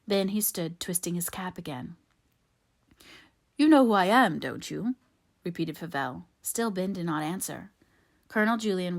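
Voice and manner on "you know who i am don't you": louder, pressing demand; insistent. A narrator's reading. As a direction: press him harder for an answer. Favell insistently repeats his question.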